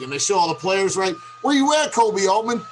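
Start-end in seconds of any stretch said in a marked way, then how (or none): 1.4-2.6 higher, pointed challenge to the GM; calling out. Real, not acted. Host calling out the general manager, heated and higher. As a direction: demand an answer, heated. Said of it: "That's calling out the incompetence".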